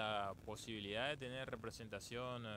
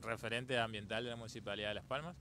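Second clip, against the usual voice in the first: speaking up; faster than usual. Real, not acted. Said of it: "Un poquito más fuerte".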